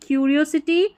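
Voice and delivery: क्यूरियोसिटी begun with a k sound, kyoo-ree-o-si-ty; क्यूरियोसिटी starts with k, not s; correct curiosity. Shown as a demonstration. Teacher giving the right क्यूरियोसिटी with a k sound. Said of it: "इसको स्यूरियोसिटी नहीं पढ़ना है".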